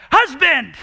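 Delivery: high, loud laughing shout at the husband; exasperated yell. Retold or imitated. Wife yelling at husband mid-cleaning, laughing shout. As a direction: yell for help, half laughing. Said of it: "You say".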